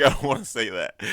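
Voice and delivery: high, loud whiny refusal through laughter; whiny mock Connell. Connell refusing Marianne's request, in a hammed-up high whine. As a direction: squeal it like a sulky boy refusing. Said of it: "He's like".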